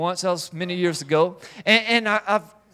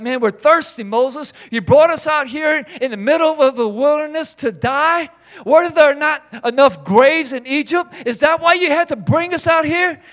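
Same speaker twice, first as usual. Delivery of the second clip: higher, louder whiny grumbling; complaining crowd; 5 semitones higher, 4 dB louder than usual. Retold or imitated. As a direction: gripe like a thirsty mob that blames the leader. Israelites complaining to Moses.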